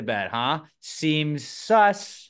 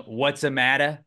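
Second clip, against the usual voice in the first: put-on Italian accent; 3 dB louder than usual. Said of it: "with an Italian".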